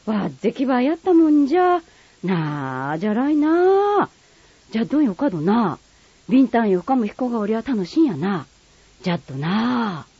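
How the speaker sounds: lightly voiced Kagoshima dialect praise and chat. Two friends praising the boy in Kagoshima dialect. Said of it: "短い会話を聞いてください".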